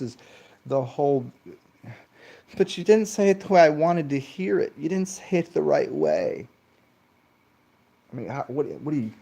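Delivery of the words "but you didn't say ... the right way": high, whining mockery of a critic; whiny mock critic. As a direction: sneer it like a petty scold.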